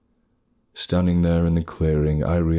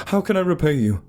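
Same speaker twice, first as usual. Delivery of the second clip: eager gratitude; 11 semitones higher, faster than usual. Acted. Breathless grateful question.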